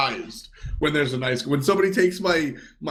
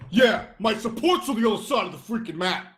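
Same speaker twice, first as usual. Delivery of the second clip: higher-pitched sarcastic whine, put on; mock sarcastic; 5 semitones higher than usual. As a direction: act out a resentful, sarcastic admission. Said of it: "people think I'm being sarcastic".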